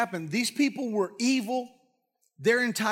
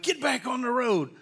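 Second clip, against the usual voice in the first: higher-pitched scolding order; mock angry command; 5 semitones higher than usual. Balaam to his balking donkey on the road, mock angry command. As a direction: play an irritated rider ordering the animal on.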